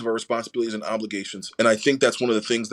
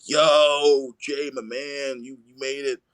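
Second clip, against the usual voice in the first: imitated hearty greeting; 3 semitones higher, slower than usual. Coach greets his player arriving at the game, hearty imitation. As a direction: hail a player like an old pal.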